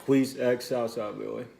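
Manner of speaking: talking through braces. Real, not acted. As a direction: braces in mouth. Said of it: "Can't talk straight 'cause I have braces in my mouth".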